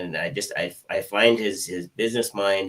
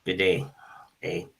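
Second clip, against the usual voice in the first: put-on Canadian accent. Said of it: "Everybody loves my outrageous Canadian accent".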